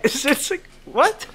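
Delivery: high-pitched incredulous laughing disbelief. Real, not acted. Panelist reacts to silly online complaints, incredulous. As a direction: jump high on a baffled "what?".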